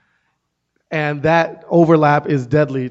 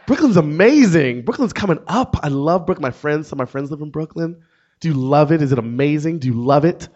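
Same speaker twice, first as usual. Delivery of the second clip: excited gushing; 4 dB louder than usual. Retold or imitated. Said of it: "She was excited".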